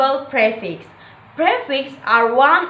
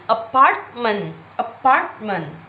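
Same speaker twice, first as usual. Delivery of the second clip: "apartment" with weight on PART; second-syllable stress; 2 semitones lower than usual. Shown as a demonstration. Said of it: "primary stress is on the second".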